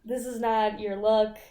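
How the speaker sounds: softly condescending retold put-down; patronizing. Roommate to tied-up intruder, softly patronizing. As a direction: let them down softly, talking down. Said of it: "she's trying to be patronizing".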